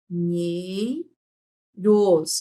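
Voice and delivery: NHEIROS as long nhei, pause, then ros; drawn-out syllables. Shown as a demonstration. Teacher isolating the NH sound, syllables drawn apart. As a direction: sustain each syllable of Nheiros. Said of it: "o nhe é um só".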